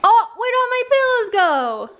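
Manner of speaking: mock dismay. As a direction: pretend shock at the mess. Mock dismay at child's mess.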